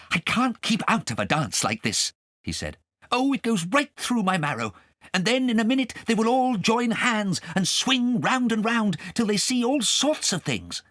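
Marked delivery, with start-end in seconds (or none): 0.1-2.1 a hint of an excited cat; eager, a touch higher; lightly voiced Nibbins. Nibbins longing to join the dance, lightly voiced. 3.1-10.8 a hint of an excited cat; eager, a touch higher; lightly voiced Nibbins. Nibbins longing to join the dance, lightly voiced.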